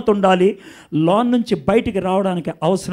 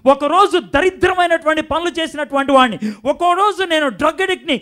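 bold testimony; 5 semitones higher, 3 dB louder than usual. Acted. Voiced testimony of a redeemed sinner.

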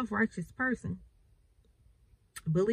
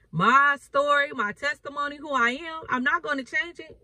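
higher, louder, insistent; firm defiant declaration; 4 semitones higher, 4 dB louder than usual. Retold or imitated. Jesus answering his questioners, firm and defiant. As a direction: stand your ground on every word. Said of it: "He's like".

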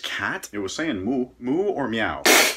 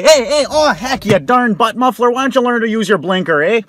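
mock road rage; 4 semitones higher, 8 dB louder than usual. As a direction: holler at the driver who forgot his blinker. Yelling at driver.

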